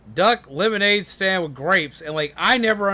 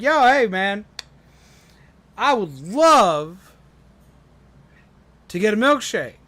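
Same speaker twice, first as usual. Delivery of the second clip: duck's voice; 3 semitones higher, 4 dB louder than usual. Acted. Duck voiced in joke.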